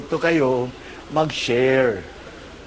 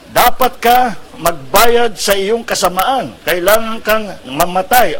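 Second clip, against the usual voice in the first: angry monkey threat; 2 semitones higher, 5 dB louder than usual. Acted. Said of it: "galit na galit".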